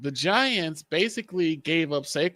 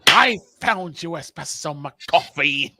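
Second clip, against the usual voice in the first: lightly voiced cartoon villain; mustache twirling villain. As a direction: gloat like a hammy supervillain. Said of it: "he's twirling the mustache".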